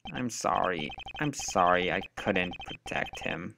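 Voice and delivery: soft, slow remorseful sorry; hushed regretful; sorrowful apology. Acted. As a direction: apologize to the grieving girl. Voicing guilt-ridden apology.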